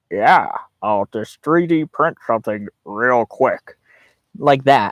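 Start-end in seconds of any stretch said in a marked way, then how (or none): 0.1-3.7 very deep, slow, strained voice, words forced out. Retelling how a tour guide spoke: imitating a guide's deep strained voice. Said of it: "a very strange voice. Um, it was very deep".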